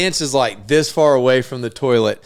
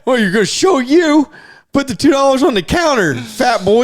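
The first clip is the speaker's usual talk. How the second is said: higher, quicker teasing voice; mock taunting; 11 semitones higher, 4 dB louder than usual. Teasing the boy over the bet, quick higher taunt. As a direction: needle him, fast and high.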